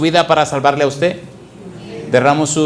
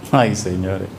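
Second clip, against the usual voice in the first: lower, softer sighing repeat; 9 semitones lower, 4 dB quieter, slower than usual. Real, not acted. Preacher repeating his sigh, softer and low. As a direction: let it fade into a sigh.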